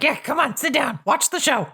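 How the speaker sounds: casual invitation. Acted. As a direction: wave the kid over casually. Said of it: "she's like".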